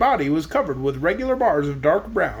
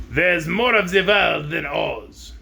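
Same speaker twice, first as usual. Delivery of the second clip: stubborn; slower than usual. Acted. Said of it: "in a stubborn voice".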